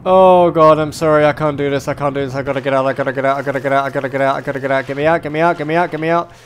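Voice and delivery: panicked rapid gasping repeats; breathless panic, rushing the words; hyperventilating. Real, not acted. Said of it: "I get shakes".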